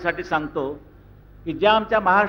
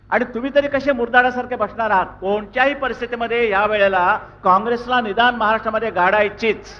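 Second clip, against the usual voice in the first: rousing shout; 3 semitones higher, 3 dB louder than usual. Real, not acted. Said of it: "rousing the crowd to action".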